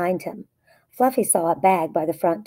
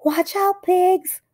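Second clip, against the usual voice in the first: heroic leader call; 12 semitones higher, slower than usual. A narrator's reading. Fluffy leading pigs out of cave, high heroic call. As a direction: lead the pigs like a bold captain. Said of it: "said Fluffy the Explorer".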